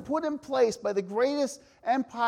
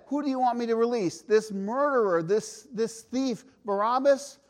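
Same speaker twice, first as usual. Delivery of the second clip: calling to crowd; 3 semitones higher, 5 dB louder than usual. Acted. Pilate asking the crowd.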